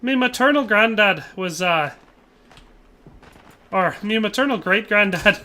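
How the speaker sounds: mock Irish brogue, stumbling a little; Irish accent. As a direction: keep up a put-on Irish lilt. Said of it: "thinking too much of the accent".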